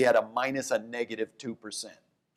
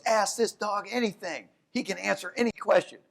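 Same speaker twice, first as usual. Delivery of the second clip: higher, pitchy huckster pitch; lightly voiced eager showman; eager dog owner; 7 semitones higher than usual. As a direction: sell the talking dog hard. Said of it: "And he goes".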